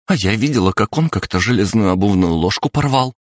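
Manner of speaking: женский голос, выше, быстро выпаливает; выпали это взволнованно, на одном дыхании; выпалила. Acted. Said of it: "выпалила Фая". (Фая взволнованно выпаливает)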